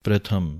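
ਪ੍ਰਥਮ with the subscript r clearly said, pre-tham; correct pronunciation. Shown as a demonstration. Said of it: "ਰਾਰੇ ਨੂੰ ਸਿਹਾਰੀ ਲਾਉਣੀ ਹੈ". (ਪ੍ਰਥਮ ਵਿੱਚ ਰਾਰਾ ਸਿਹਾਰੀ ਨਾਲ ਬੋਲੋ)

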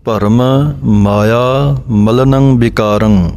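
ਭਰਮ, short pause, then ਮਾਇਆ separate; pause after ਭਰਮ. Shown as a demonstration. Teacher shows the break between ਭਰਮ and ਮਾਇਆ, slow. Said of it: "ਬੋਲ ਕੇ ਮਮਾ ਮਾਇਆ ਦਾ ਅਲੱਗ ਬੋਲਣਾ ਹੈ".

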